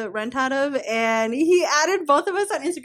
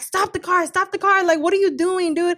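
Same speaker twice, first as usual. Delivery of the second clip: retold screaming; 5 semitones higher than usual. Retelling screaming at David from the car door, contained. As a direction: re-enact a frantic demand with raised pitch. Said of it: "I'm, like, screaming at him".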